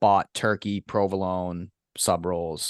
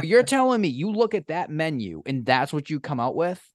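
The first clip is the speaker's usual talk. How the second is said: much higher, incredulous outburst; mock outrage; 7 semitones higher than usual. Berating a friend for ordering roast beef, in high mock outrage. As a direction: act appalled at his choice.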